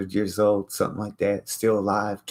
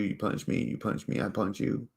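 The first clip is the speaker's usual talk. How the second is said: whispered; 4 semitones higher, 7 dB quieter than usual. Real, not acted. Explaining the golden rule, hushed whisper. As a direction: whisper the back and forth. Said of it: "unvoiced aside".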